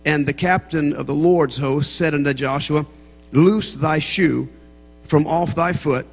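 slow, measured Bible reading; scripture reading. A narrator's reading. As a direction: read the verse solemnly, spacing out phrases. Reads scripture aloud to congregation.

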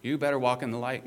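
brisk, firm command; pressing admonishment at a fast clip; imperative. Shown as a demonstration. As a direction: order it as a quick warning. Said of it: "if you want the imperative".

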